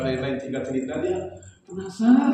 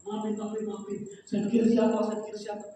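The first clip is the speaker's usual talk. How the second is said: soft, much quieter pleading sorry; apologetic; 8 semitones higher, 8 dB quieter than usual. Retold or imitated. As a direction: mumble the apology, embarrassed. Guard apologizes, embarrassed. (minta maaf dengan suara pelan)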